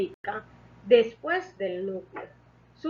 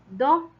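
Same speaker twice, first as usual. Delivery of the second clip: "do" punched higher and louder; stressed tonic syllable; 6 semitones higher, 6 dB louder than usual. Shown as a demonstration. Teacher showing students the tonic syllable of computadora, "do" stressed. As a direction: put the full force of the voice on "do". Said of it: "recae la mayor fuerza de voz".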